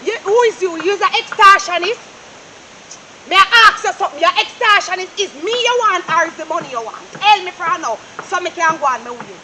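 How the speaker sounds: loud, rising challenge; heated accusing quarrel; angry accusation. Acted.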